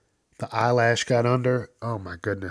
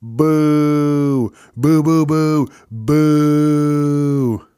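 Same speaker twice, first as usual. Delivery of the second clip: loud repeated boos; loud drunk heckling; 3 semitones higher, 7 dB louder, much slower than usual. Acted. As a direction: jeer at the comic. Heckler booing.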